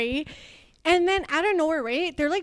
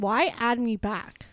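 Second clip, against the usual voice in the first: 1 mock incredulous; 4 semitones lower, 6 dB quieter, slower than usual. Mocking ex adding back.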